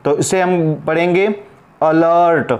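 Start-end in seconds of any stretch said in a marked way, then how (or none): 1.8-2.5 अलर्ट starting with a short "uh"; teacher modelling अलर्ट with schwa first. Shown as a demonstration. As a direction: say अलर्ट as "uh-lurt", set apart. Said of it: "ए का sound अ के रूप में".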